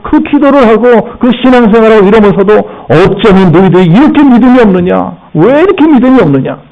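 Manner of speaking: a teacher scolding disciples, pitch rising line by line; rebuking. Retold or imitated. Preacher voicing Jesus rebuking his frightened disciples, mock scolding. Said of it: "꾸짖고 계세요".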